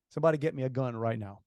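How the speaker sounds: dry, quick and matter-of-fact; calm, wry urgency without raising the voice; calm sarcasm. Retold or imitated. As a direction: say it calmly with understated sarcasm. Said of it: "calmly say, being sarcastic".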